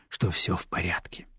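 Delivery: hushed whisper of despair; voiceless whisper to herself. Acted. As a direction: whisper it under the breath. Inner thought, whispered.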